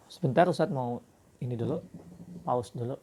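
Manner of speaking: whispered aside. Real, not acted. Teacher whispering before pausing the lesson. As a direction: murmur it off-mic.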